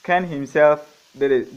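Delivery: "Ken" stressed, then a falling finish on "did it"; teacher showing the same emphatic "Ken himself"; emphasis on himself. Shown as a demonstration. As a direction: punch "Ken" and let the line fall. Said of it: "The same emphasis".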